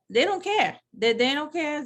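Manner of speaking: rising exasperation at selfish people; outraged. Real, not acted. Senior citizen complaining about maskless people, outraged. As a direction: voice jumps high, fed-up disgust.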